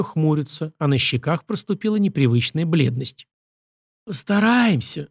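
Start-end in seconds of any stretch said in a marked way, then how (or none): 4.0-5.1 smiling. Acted. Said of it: "с улыбкой ответил Морозов".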